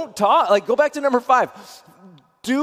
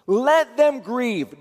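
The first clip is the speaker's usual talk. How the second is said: slow emphatic; much slower than usual. Shown as a demonstration. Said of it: "Do let them grieve".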